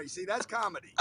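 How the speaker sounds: high, laughing through the words; cracking up as you talk. Real, not acted. Laughing at the joke.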